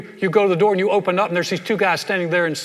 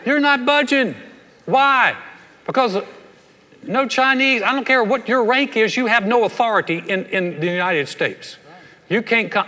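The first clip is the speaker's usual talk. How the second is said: defiant shouting; 5 semitones higher than usual. Pretend. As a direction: yell them off your doorstep, half laughing. Defying pretend arresting officers.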